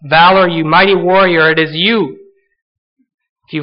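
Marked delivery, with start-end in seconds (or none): 0.0-2.2 lightly voiced Lord affirming Gideon; a hint of divine insistence; the Lord insisting. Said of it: "And the Lord says".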